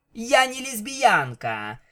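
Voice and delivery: very high shout flung outward. A woman shouts after her departing rival, not wanting her to have the last word: shouted after someone. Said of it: "Лира крикнула вдогонку".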